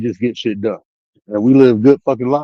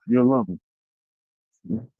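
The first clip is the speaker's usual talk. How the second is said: mock sweet drawl; 10 semitones higher, 6 dB quieter, much slower than usual. Mock sweet promise, drawn out.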